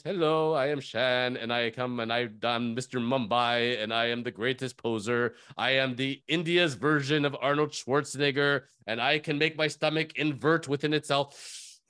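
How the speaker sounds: understated cocky poser introducing himself; Shan voice. Retold or imitated. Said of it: "I can't do the Shan voice very well".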